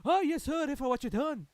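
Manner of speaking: loud, high, hammed-up accusation; mock furious shout. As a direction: bellow it like a mock confrontation. Mock-confronting Britain.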